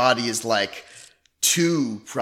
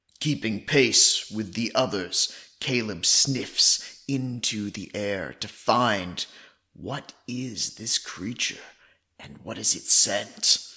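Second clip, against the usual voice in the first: put-on werewolf voice, narrating. A player narrates caleb sniffing for the creature's scent, in a werewolf voice. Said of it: "talking in the third person but in the werewolf voice".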